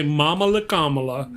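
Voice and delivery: Mamala Kamala, both stressed on the first syllable; rhyming pronunciation. Shown as a demonstration. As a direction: say Mamala Kamala as a matched rhyme. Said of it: "I heard her say".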